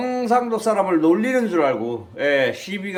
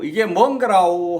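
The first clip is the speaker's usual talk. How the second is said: Jeolla dialect; 2 semitones higher, 4 dB louder than usual. Retold or imitated. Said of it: "전라도 사람이 이게 무엇이냐고".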